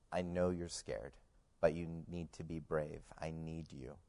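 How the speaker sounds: soft, understated retelling of a mother's reassurance; gentle encouragement. Retold or imitated. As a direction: quietly urge a scared child to be brave. Injured mother encourages frightened son.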